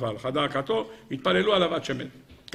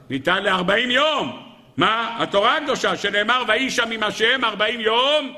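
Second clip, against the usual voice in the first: fervent preaching; 7 semitones higher than usual. Acted. Preacher raises voice quoting verse.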